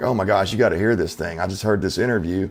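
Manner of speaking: usual speaking voice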